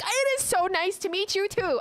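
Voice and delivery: high, gushing and emotional; gushing sincerity. Retold or imitated. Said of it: "how I felt on the inside".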